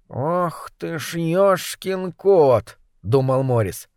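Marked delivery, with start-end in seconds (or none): 0.1-2.8 stunned. Acted. Cat thinks in shock.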